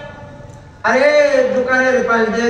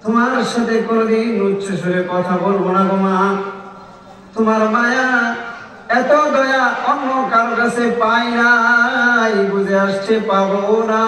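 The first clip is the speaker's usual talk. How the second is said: crying out to mother. Acted. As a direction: cry out to mother at the door, then beg. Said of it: "চিৎকার দিয়ে বলে".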